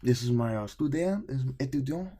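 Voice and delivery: high, imitated excited introduction; pumped professor. Professor introducing his student to colleagues, imitated pumped delivery. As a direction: show off your student, voice climbing. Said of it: "he was always just fucking pumped".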